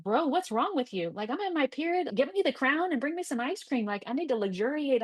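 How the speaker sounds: put-on high, indignant teen demanding to be pampered; bratty daughter. Daughter scolding her dad, high and indignant. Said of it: "she's gonna be like".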